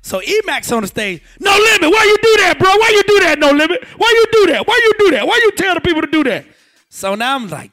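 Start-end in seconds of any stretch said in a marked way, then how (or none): 1.4-6.4 much higher, louder, pleading rant; exasperated yelling. Retold or imitated. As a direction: yell at him again and again. E-Max yelling from stage.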